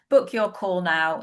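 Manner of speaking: ordinary talk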